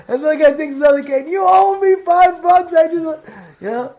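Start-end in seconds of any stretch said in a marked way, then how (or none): 1.3-3.2 retold loud demand. Old man demanding his money.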